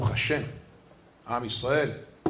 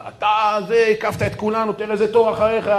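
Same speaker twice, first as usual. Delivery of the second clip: higher-pitched mock scolding; mildly raised voice, accusing; retold scolding; 5 semitones higher than usual. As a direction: imitate an impatient shopper telling someone off. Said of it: "צעק עליו".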